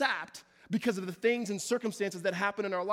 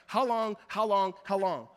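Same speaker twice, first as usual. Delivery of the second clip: repeated cry; 4 dB louder than usual. Acted. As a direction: cry it again and again. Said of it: "four times".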